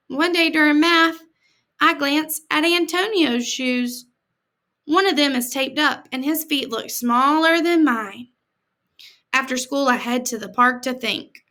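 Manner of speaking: put-on reading a picture book to kids; gentle read-aloud for children; story reading. A narrator's reading. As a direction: tell it like a storybook to a class.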